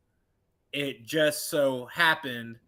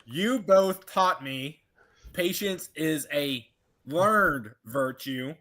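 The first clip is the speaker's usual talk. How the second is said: mock wise lecture; slower than usual. Grown child lecturing parents about patience, slow mock sage. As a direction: deliver it like a patient sage, slowly.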